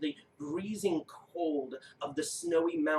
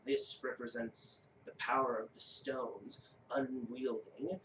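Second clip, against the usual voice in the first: measured, reverent rune keeper; solemn giant; 4 dB quieter than usual. Acted. Giant explains stone rune to player, solemn.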